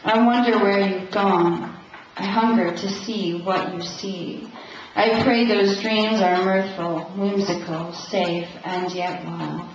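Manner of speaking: measured, steady live poem recital; poetry reading. Acted. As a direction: read your poem out, lingering over the images. Reads own poem to audience.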